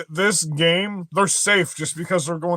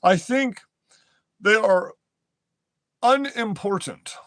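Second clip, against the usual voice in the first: higher, slow and sneering; mocking paraphrase; 4 semitones higher, slower than usual. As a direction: parody the judge's hedging. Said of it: "mocking the judge's words".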